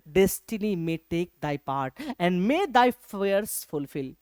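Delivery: very slow recital of the verse; slow poem reading. Shown as a demonstration. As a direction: read it out word by word. Teacher recites poem line.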